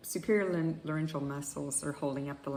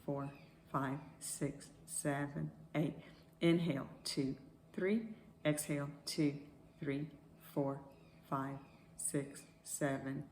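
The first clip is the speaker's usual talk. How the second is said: slow paced counting, fading softer; guided breath counting; 3 dB quieter than usual. Acted.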